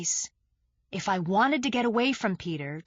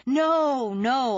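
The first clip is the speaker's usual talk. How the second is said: louder, higher hurried no; quick denial; 6 semitones higher, 5 dB louder than usual. Acted. Narrator quickly denies wanting drugs, louder and higher. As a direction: brush the idea off fast.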